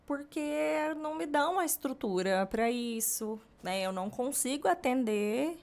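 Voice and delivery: amiga sobrecarregada, tom mais agudo; desabafo choroso imitado. Retold or imitated. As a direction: recontando a queixa aflita da amiga. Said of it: "ela veio falar comigo chorando, um desabafo". (queixa angustiada, sem choro de verdade)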